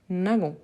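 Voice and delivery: "Nagons" with a hard g as in "gare". Shown as a demonstration. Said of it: "on a le son nagon".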